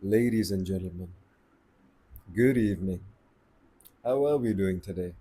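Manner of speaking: smooth late night radio host. Shown as a demonstration. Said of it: "you have this late night sexy voice".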